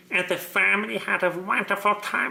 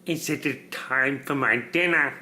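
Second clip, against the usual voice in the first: lower, lightly voiced dark dog voice; 6 semitones lower than usual. Parent shows the child the dark voice, lower. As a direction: read it in a dark, deeper voice. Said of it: "Do you want me to make the dark voice?".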